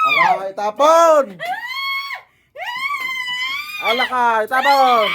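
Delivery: loud, forceful order, drawn out; shouted command. Real, not acted. Healer ordering the spell thrown away, shouted command.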